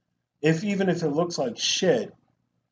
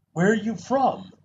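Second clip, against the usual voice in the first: mock disbelief; 3 semitones higher than usual. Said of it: "now he can't do a Southern accent".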